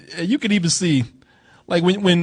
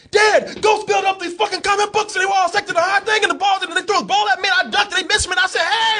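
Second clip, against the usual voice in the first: put-on high, fast, breathless kid tumbling out the story; excited kid; 14 semitones higher than usual. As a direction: babble it like a wound-up kid. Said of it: "the kids just like".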